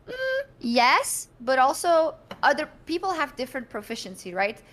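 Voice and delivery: high, knowing little hum before the point; coyly agree, then gently push back; wry self quote. Retold or imitated. Answering admirers who praise her languages, in a high wry tone. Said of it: "and I'm like".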